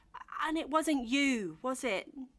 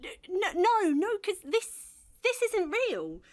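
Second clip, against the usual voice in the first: panicked; 2 semitones higher, 4 dB louder than usual. Acted. Panicked denial.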